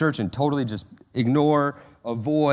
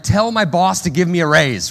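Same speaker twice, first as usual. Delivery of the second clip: whiny Martha prayer; 5 semitones higher, 7 dB louder than usual. Retold or imitated. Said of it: "pray like Martha".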